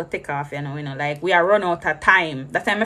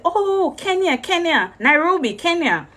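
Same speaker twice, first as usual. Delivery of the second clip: eager realization; 8 semitones higher, slower than usual. Retold or imitated. Finally explaining destination to guards.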